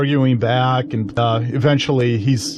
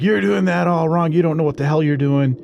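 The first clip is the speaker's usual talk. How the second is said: higher-pitched mocking drunk guy; drunk know-it-all; 7 semitones higher than usual. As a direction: imitate a drunk man scolding everyone. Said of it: "And he's drunk again".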